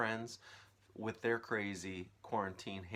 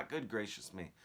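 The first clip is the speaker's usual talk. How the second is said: higher, louder mocking aunt; scoffing aunt; 5 semitones higher, 10 dB louder than usual. Aunt mocking then seeing the peach, loud. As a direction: sneer then gasp in surprise.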